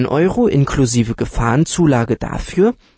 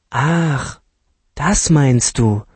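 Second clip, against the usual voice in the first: casual; 2 semitones higher, much slower than usual. Acted. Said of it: "sagte Nora lässig".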